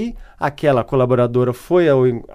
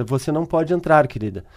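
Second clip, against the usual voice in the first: somewhat dry voice; 4 dB quieter than usual. Retold or imitated. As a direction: retell a mildly dry refusal, trailing down. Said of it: "com uma voz meio seca".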